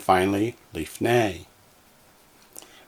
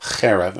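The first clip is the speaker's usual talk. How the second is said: "cherev" as CHE-rev, first syllable stressed. Shown as a demonstration. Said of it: "That one also accents on the first syllable".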